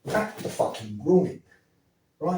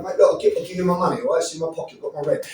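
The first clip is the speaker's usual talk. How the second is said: mock scared; much faster than usual. Shown as a demonstration. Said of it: "'cause you scared me".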